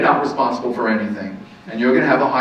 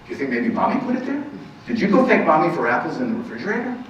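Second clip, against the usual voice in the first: high, quick, gentle prompting; coaxing parent; 3 semitones higher, faster than usual. Pretend. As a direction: nudge the child toward thanks.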